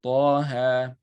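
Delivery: "Ta ha" with each vowel held two counts. Shown as a demonstration. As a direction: hold "Ta" and "ha" for exactly two counts. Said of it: "just two counts".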